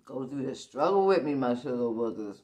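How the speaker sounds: loud teasing call to viewers; playful loud call. Acted.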